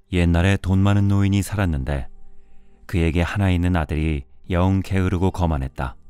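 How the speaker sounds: ordinary delivery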